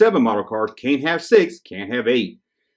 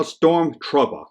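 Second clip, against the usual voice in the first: "Stormtrooper" with a New York dropped R; New York accent; 3 semitones higher, much slower than usual. Retold or imitated. Reading a kid's letter aloud, New York accent. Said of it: "That's how they say it up in New York".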